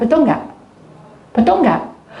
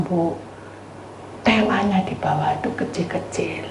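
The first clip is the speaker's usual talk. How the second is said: usual speaking voice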